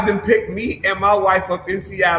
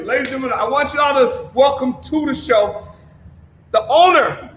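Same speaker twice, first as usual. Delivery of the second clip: yelling introduction; 4 semitones higher than usual. Real, not acted. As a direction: holler a big welcome to the guest. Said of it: "I'm sorry I'm always yelling".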